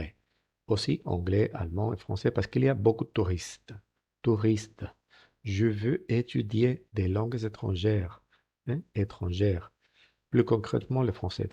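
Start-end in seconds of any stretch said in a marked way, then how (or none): 5.4-8.2 slow model reading. Shown as a demonstration. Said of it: "slow model sentence".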